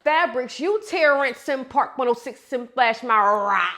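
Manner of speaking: with oomph. Shown as a demonstration. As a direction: hit the bar with confidence. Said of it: "the same oomph".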